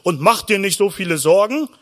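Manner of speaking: mildly stern, measured scolding; admonishing priests. Acted. Preacher mimics priests lecturing worried people, mildly stern. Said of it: "Die Priester haben immer gesagt".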